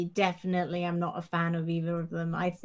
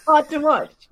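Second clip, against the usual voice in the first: tag laughing; 5 semitones higher, 8 dB louder than usual. Real, not acted. Laughs while echoing the remark.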